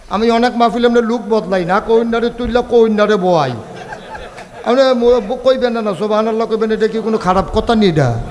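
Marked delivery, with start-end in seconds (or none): 4.6-8.2 louder. Real, not acted. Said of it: "জোরে কন".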